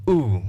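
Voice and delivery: "oo" held as a long vowel; isolated long "oo", as a teacher models it; long vowel sound. Shown as a demonstration. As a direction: draw out "oo" on its own. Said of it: "has the long vowel sound".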